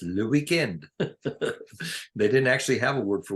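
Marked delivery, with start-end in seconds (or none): 0.0-0.9 "le weekend" in a light French accent. Shown as a demonstration. Telling how French said weekend years ago, French accent. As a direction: say "le weekend" as a French speaker would. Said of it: "pronounce it as if you have a French accent".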